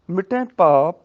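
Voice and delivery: ਮਿਟੇ said with a nasalised final vowel; ਮਿਟੇ with a nasal ending; nasal pronunciation. Shown as a demonstration. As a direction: push the end of ਮਿਟੇ through the nose. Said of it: "ਨਾਸਕੀ ਉਚਾਰਨ ਹੋਏਗਾ".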